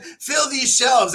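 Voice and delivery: slow, drawn-out mock shout; mock shouted order. Telling his assistant to fill the shelves, slow mock shout. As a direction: bark it like a grand command.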